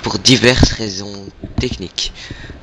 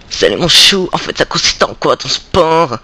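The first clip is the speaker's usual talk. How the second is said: reporter voice; 4 semitones higher than usual. Acted. Night elf reporter voice.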